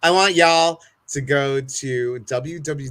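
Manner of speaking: put-on rally the folks in a Southern accent; drawn-out Southern y'all. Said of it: "let me get my Southern people in".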